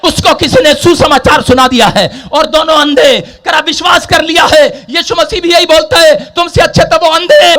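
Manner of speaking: high, driving sermon delivery; full-force preaching. Acted. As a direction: preach it out in an unrelenting stream.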